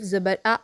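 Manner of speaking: "ज़बर आ" with the आ dragged out long; wrong stretched vowel. Shown as a demonstration. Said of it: "ऐसे भी नहीं पढ़ेंगे". ("आ" को खींचकर गलत पढ़ना)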